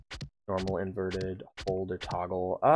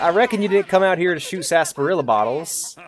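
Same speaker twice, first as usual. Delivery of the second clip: cowboy voice; 5 semitones higher than usual. Pretend. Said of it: "I will be doing the cowboy voice for fun".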